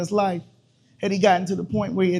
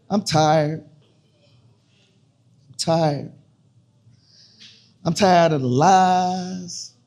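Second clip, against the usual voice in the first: spoken word poem. Acted. Poet performing a piece to an audience, measured and dramatic. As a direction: perform the piece to a listening room, dwelling on each line.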